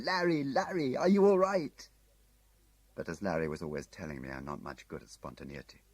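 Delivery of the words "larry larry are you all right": loud, high calling out across the hill; yelling. Acted. Tim yelling to Larry across the hill, loud. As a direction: call his name at full voice.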